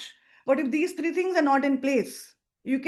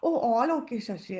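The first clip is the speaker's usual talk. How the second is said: low-energy hesitant call; 3 semitones lower than usual. Shown as a demonstration. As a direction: sound unsure and apologetic about the business. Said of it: "if I do my info call like this".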